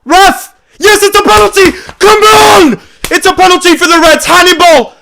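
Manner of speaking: screaming high and loud in pure joy; ecstatic shouting. Real, not acted. Fan celebrating a late penalty for the Reds, ecstatic screaming. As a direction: erupt like the winner just landed.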